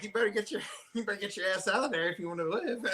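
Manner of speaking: Samuel Jackson. Retold or imitated. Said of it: "Samuel Jackson".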